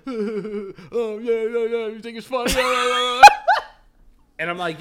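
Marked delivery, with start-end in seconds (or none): 0.1-3.2 high, hammed-up angry man laughing; mock angry laughter. Imitating road-rage driver taunting me, mock laughing shout. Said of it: "so he's laughing ... He's like".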